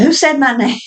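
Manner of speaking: high whisper; child sensing her name was thought; whispered question. Retold or imitated. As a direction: whisper it, eerie and curious. Child hears name called inside.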